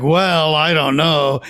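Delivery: mildly sanctimonious character quote. Acted. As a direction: hedge with a touch of mock piety. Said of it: "sanctimonious. It was like".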